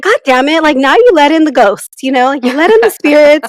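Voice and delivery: mock exasperation, pitched high; an exasperated mom scolding her son. Quoting Nikki's mock outburst at her son, exasperated.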